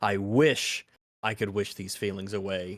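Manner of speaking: extra weight on "first" in "first wish". Explaining saying a word twice in a row, stress on the first wish. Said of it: "giving extra emphasis um, on that first wish".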